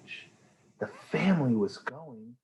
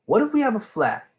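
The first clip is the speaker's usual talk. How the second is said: put-on worried child; 11 semitones higher, 5 dB louder, faster than usual. Amelia anxious questions.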